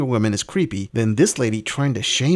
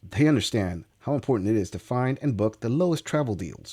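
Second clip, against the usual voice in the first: lively promotional read, pitch often lifted; sponsor ad read; 4 semitones higher than usual. Acted. Host pitching cheap flights to viewers, ad read. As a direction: sell it like a sponsor spot.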